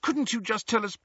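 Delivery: put-on high, coaxing girl; pleading Hermione. A narrator's reading. Hermione begging the portrait for an answer, pleading. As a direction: coax him, softening on please.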